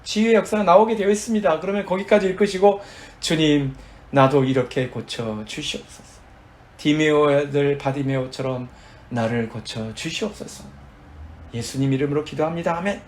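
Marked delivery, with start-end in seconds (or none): 3.2-13.0 measured, reverent sample prayer; model prayer. Shown as a demonstration. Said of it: "그렇게 기도하시는 거예요".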